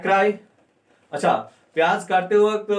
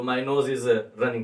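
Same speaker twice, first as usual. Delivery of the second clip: 1 slow model sentence; 5 semitones lower, much slower than usual. Shown as a demonstration. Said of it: "कर सकते हैं".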